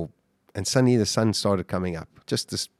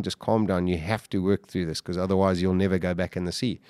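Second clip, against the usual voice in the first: softer, calm talking-down to himself; calm self-talk; 3 semitones lower, 3 dB quieter than usual. Retold or imitated. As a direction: soothe yourself gently to stay calm. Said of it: "just calmly said".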